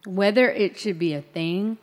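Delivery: talking while chewing; words around a bite of food; mouth full. Real, not acted. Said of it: "Sorry, I'm eating, guys".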